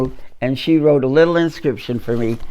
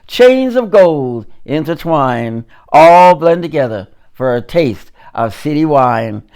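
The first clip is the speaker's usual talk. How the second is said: measured, rhythmic poem recital; poetry reading; 4 dB louder than usual. Acted. Poet reciting to the audience in a spoken-word poetry voice. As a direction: read it like a spoken-word performance.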